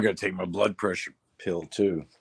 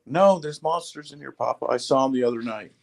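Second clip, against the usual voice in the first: put-on high little kid insisting; lightly voiced small child; 4 semitones higher than usual.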